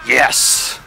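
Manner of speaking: loud triumphant yes; excited cheer. Real, not acted. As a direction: punch the air as it lands. Grenade finally lands on enemy.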